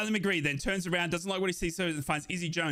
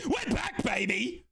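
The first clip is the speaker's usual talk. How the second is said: gleeful shout; slower than usual. Real, not acted.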